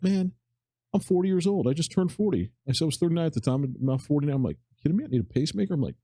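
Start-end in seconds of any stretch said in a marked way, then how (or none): 0.0-2.5 higher-pitched mild protest; retold disbelief. Patient to doctors who say he needs a pacemaker, retold disbelief. 4.8-5.7 retold incredulity. Patient questioning doctors about the pacemaker, retold incredulity.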